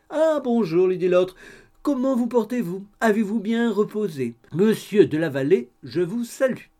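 high, eager gossipy landlady voice; chatty landlady. A narrator's reading. Landlady greeting the couple over coffee, high and eager. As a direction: bustle in all welcome and chatter.

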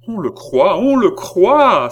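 loud, high cry of outrage; distraught anger. A narrator's reading. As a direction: cry it out, beside yourself with anger. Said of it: "s'écria la reine éperdue de colère". (cri de colère éperdue)

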